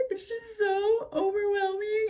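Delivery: high, slow, hammed-up sobby voice; mock crying. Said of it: "and I'm, like, crying".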